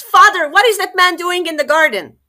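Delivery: high, loud alarmed scream; second princess screaming at the stranger. A narrator's reading. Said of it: "stops and screams".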